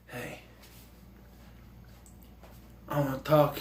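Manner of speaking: near-whispered, hushed tough-guy line; Seagal whisper. Retold or imitated. Vlogger imitating Seagal's hushed movie voice. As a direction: breathe it like Seagal, barely voiced. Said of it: "He whispers a lot".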